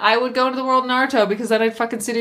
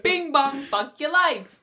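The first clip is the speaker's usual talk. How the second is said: copying the doorbell bit; 5 semitones higher, 3 dB quieter, slower than usual. Pretend. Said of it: "I said ding dong".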